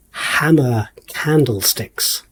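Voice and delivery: slow, lightly mystical announcement; a hint of a stage magician, drawn out. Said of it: "I'm saying all of this in my, like, magician voice".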